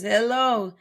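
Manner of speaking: sing-song hellos to viewers; lightly voiced streamer hellos; mock livestream greeting. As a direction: imitate a streamer stuck on greetings. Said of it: "She never makes it past".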